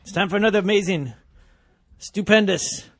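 big booming announcer voice; booming kids show opener. Pretend. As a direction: boom it out like a kids show host. Radio show opening announcement.

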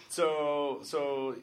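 Canadian vowel on a drawn-out "so"; long, loud Canadian "so"; real Canadian accent. Real, not acted. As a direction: let the Canadian accent slip out. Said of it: "I just went real Canadian there".

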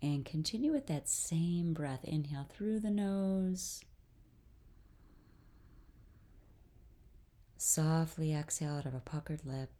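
calm guided-breathing voice with long pauses; guided meditation. Real, not acted. Host leads listeners through breathing, guided meditation. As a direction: lead them gently through each breath, unhurried.

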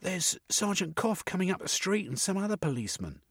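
high woman's voice; an excited woman pointing; Missus. A narrator's reading. Missus tells Jeremy the police are coming.

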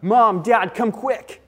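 mock alarm of a child calling parents; urgent child's call. Older sibling runs up to fetch parents, urgent call. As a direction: call out urgently, pitch lifting at the end. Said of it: "older sibling coming running up".

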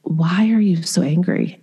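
calm, unhurried retold question; imitating a patient, gentle questioner. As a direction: ask it patiently, without judgement. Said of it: "he was just so patient and calm".

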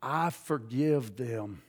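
very low, soft and slow, almost breathed; quiet forgiveness. Retold or imitated. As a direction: say it softly and slowly, as if from deep inside. Recalls forgiving in prayer.

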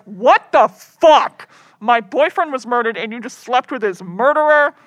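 loud, drawn-out opening, then emphatic scolding; retold fury, lightly hammed up; mock outrage. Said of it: "I'm so mad at you".

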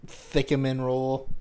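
Thickemin said with a lisp, th for s; mock lisp on Thickemin; lisped cinnamon.

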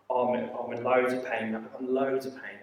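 low, muted voice of a man in pain; imitated homeless man. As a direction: lightly voice a man living rough. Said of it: "Just talk like that".

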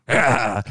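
short harsh imitated yell; mock German yell. Retelling a video of languages, mock German yell. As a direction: imitate a sudden German outburst, half-shouted. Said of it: "every time he got to the German".

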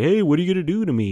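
officiant voice. Retold or imitated.

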